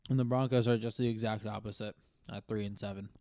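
talking while chewing food; mouth full. Real, not acted. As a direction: speak through a mouthful of food. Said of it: "Sorry, I'm chewing on food".

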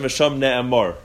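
ne'emar ending in a rounded "-or"; v'sham ne'emar, last vowel an "aw"; kamatz vowel. Shown as a demonstration. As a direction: say ne'emar as "ne-eMOR". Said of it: "with the kamatz".

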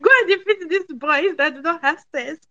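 high-pitched, amused cheering-on; giggly mock rallying cry; laughing. Real, not acted. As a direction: egg her on through leftover laughter. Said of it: "I'm laughing at myself".

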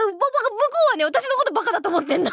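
fast, laughing through the words; can barely get it out for laughing. Real, not acted. Telling listeners the friend's blunder, laughing.

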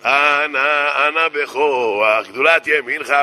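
slow, drawn-out prayer recitation; mock-solemn kabbalist starting a prayer; rabbi's incantation. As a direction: intone it solemnly, stretching each word. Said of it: "הרב מתחיל".

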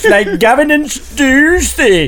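hammed-up amateur Welsh boast; Welsh accent. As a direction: push the Welsh lilt up as you go. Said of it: "It's a Welsh accent".

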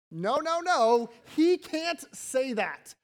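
the Pharisees bristle, insisting only God forgives; indignant objection. Retold or imitated.

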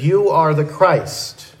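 firm, measured stress across "You are the Christ"; emphatic declaration. Acted. Preacher quoting Peter's answer to Jesus, emphatic. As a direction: declare "You are the Christ" slowly, each word weighted. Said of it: "the structure is very emphatic".

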